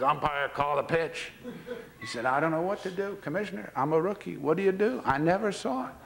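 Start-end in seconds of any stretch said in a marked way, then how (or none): 0.0-1.3 slow, evenly voiced request; catcher's measured demand. Catcher to rookie umpire waiting on a call, measured demand. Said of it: "Etcheverron says". 2.3-5.9 flustered rookie. Retold or imitated. Rookie umpire confessing to the commissioner, flustered helpless plea.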